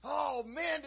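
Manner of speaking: an excited shout of "Oh, man"; excited holler. Retold or imitated. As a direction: call out like a thrilled churchgoer. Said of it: "hollering about".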